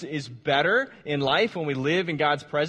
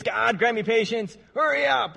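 praying for patience through teeth; 4 semitones higher than usual. Retold or imitated. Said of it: "this is often how we tend to treat patience".

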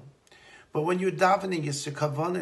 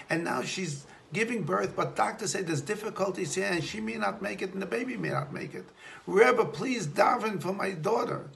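a hint of a frantic mother, higher; rushed plea, higher pitch; pleading mother; 4 semitones higher than usual. Mother begging the Rebbe to pray, higher and urgent.

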